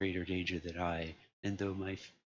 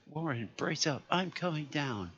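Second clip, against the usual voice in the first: rallying shout down the line; shouted resolution; 8 semitones higher than usual. A narrator's reading. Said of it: "I formed and shouted a resolution".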